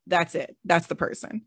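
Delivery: normal talking voice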